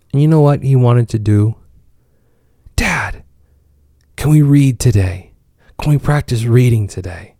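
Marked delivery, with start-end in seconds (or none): 2.8-7.4 put-on eager child. Son asking eagerly, child voice.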